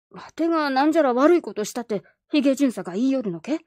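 put-on high, loud startled boy; indignant child. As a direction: demand it like an offended kid.

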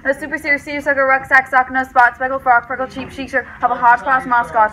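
tongue twister. Shown as a demonstration. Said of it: "Do your word thing".

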